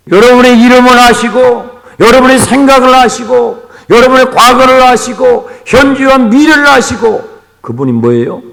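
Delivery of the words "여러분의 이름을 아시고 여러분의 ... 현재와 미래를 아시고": higher, louder preaching at full force; rising preacher's call. Real, not acted. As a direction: build the list with growing fervour. Preacher builds listing God's knowledge.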